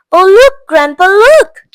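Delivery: high, loud, eager cry of look; boy calling out in delight; excited cry. Acted. Charlie calls his grandpa to look, excited cry. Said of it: "cried Charlie".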